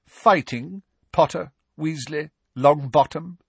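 cold sneer. Acted. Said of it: "in his cold, sneering voice".

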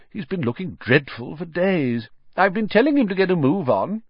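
put-on lightly exasperated elderly wizard; Dumbledore, unconcerned. A narrator's reading.

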